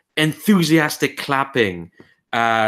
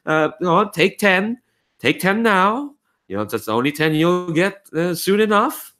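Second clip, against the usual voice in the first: put-on high, fast, bossy old lady voice; old noble woman; 10 semitones higher, faster than usual. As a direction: hustle the singer off stage. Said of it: "woman goes".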